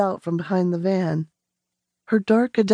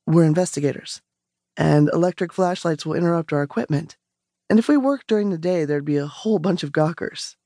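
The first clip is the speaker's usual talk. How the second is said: a lower man's voice, matter-of-fact; calm investigator; 3 semitones lower, faster than usual. Acted. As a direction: explain it plainly, as if it's routine. Stranger explains, voiced lower.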